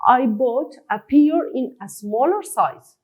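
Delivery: words spaced out slowly; teacher reading an example line slowly. Shown as a demonstration. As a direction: read it slowly, as dictation for the class. Reading example sentence for learners.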